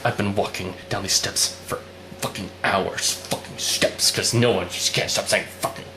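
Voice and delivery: low, soft, half-hearted weepy complaint; mock crying. Retelling Noah crying on endless steps, mock-weepy. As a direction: imitate a tearful man worn out. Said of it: "and he's crying".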